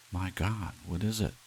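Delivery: breathless, amazed; stunned by the gift; astonished gasp. Acted. Doris stunned at the dinner table, amazed.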